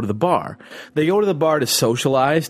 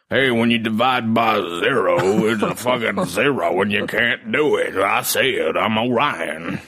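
put-on drunk Orion. Imagining co-host explaining maths while plastered, mock drunk slur. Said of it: "I wish you sounded like that when you were drunk".

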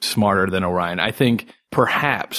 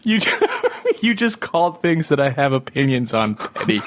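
laughing; 6 semitones higher than usual. Real, not acted. Laughing at the friend's slip.

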